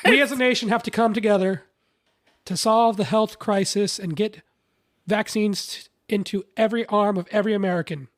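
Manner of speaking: lightly voiced earnest politician; grand address to the nation, lightly played; mock politician speech. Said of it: "you end it with ladies".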